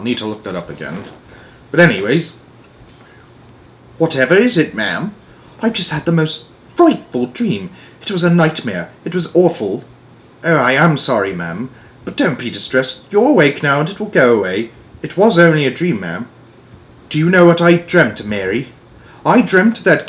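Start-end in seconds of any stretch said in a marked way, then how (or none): 4.0-9.8 lightly raised, worried royal voices; a lightly voiced frightened Queen; voiced maid and Queen. Maid asks, Queen tells of her nightmare, raised worried voices. 10.4-16.3 a lightly voiced maid calming her mistress; reassuring maid. Maid soothes the Queen after her nightmare, gentle raised voice.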